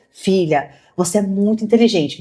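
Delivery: tender praise. Retold or imitated. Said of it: "eu falei".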